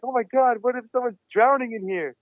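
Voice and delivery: imitated alarm, voice jumped up; retold panic. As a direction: act out the sudden fear someone is drowning. Retold panic about someone drowning.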